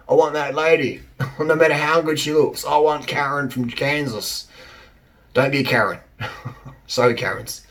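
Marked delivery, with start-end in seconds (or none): 0.1-4.5 mock smitten guy. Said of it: "No one's going".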